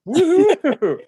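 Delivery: high, loud whoop; squealing fake celebration; mock cheer. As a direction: cheer like you've won big. Sarcastic cheer about poverty dream.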